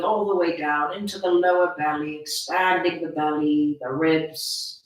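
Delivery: measured breathing instructions with long pauses; guided meditation. Acted. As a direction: guide them breath by breath, unhurried phrases.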